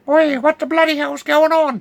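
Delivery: put-on high, startled yell of an old farmer. Farmer yelling at intruders, startled high shout. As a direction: shout it like a man caught out. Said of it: "says Jack McGill".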